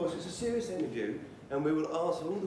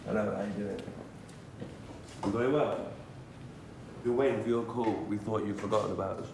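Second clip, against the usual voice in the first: Murdoch character voice; 6 semitones lower than usual. Acted. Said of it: "I've got to be Murdoch".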